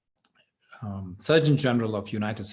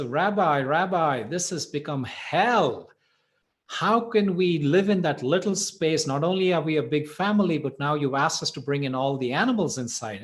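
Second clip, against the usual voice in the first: higher-pitched, mildly hammed-up desperate complaint; mock distressed wail; 4 semitones higher than usual. Man complains to the rabbi about his crowded house, mock distressed. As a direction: act out a distraught plea, without real tears. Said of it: "he comes running, screaming, crying".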